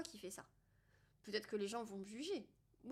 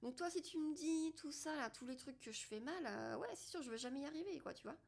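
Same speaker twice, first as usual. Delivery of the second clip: higher-pitched, lightly mocking retort; answering back; 6 semitones higher, faster than usual. Talking back to her own mind, lightly mocking. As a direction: humour the inner critic in a higher voice. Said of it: "je dis à mon mental".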